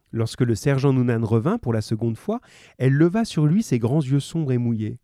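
measured read-aloud storytelling; story narration. A narrator's reading. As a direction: read it out evenly to listeners.

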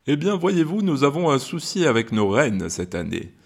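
lightly voiced kindly Santa. Santa telling the kids his reindeer is hurt, lightly voiced. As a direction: explain like a worried Father Christmas.

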